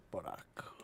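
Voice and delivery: low, whispered afterthought; hushed, teasing whisper; whispered aside. Pretend. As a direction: whisper it like a secret option.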